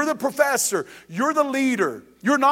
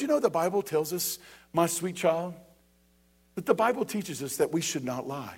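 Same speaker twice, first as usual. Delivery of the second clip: softer, tender teaching tone; gentle parent voice; 3 semitones lower, 5 dB quieter than usual. Retold or imitated. Modelling how a parent gently teaches a child, soft and warm. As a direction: say it kindly, like to a child. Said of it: "in a good voice on a good day".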